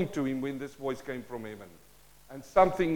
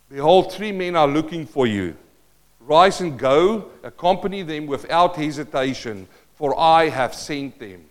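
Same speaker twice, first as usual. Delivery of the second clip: measured, commanding scripture reading; scripture proclamation; 5 dB louder than usual. Acted. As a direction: deliver the command as solemn proclamation. Reads the Spirit's words from scripture.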